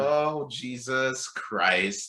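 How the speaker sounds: very slow, appalled exclamation; drawn-out dismay. Retold or imitated. Listener appalled at the stranger's confession, drawn-out dismay. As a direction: stretch it out in mock disbelief.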